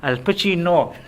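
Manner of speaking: lightly voiced Al Pacino; Al Pacino impression. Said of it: "Wow, what was that?".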